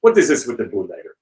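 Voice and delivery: imitated Russian friend's accent. Russian friend calls about the bootlegger, imitated Russian accent. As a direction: lightly mimic a Russian caller. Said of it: "that same Russian friend called me up".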